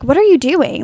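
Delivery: mildly concerned imitation; imitating concern. Host showing how the sleeper said it, mildly concerned. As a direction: ask it with a touch of concern, as an imitation.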